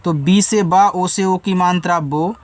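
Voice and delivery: बा then बो, each sound drawn out; बी से बा, ओ की मात्रा बो spelled slowly; slow spelling-out drill. Shown as a demonstration. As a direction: sound out बो syllable by syllable. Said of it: "बोलो".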